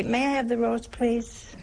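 soft, demure nun's request; polite request. Retold or imitated. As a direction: ask sweetly and quietly. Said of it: "sisters used to say".

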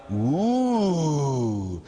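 long swelling ooh that slides down; drawn-out sarcastic ooh; mock-awed ooh. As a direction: pretend to be impressed. Mock awe at the kid's answer.

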